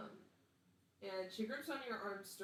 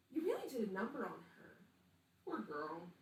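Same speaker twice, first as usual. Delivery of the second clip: 4 dB louder than usual. Acted. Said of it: "with a smile and says".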